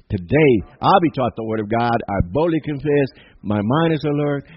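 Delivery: bold, emphatic declaration of faith; like they mean it. Real, not acted. Preacher leads church in a Bible confession, like they mean it. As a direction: declare it firmly, a firm line at a time. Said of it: "Let's say it like we mean it".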